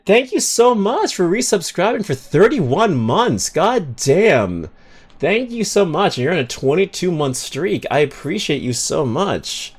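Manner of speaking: shower the viewer with gratitude; gushing thanks. Real, not acted. Thanking resubscriber on stream.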